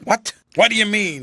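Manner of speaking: shocked by the words; startled demand. A narrator's reading.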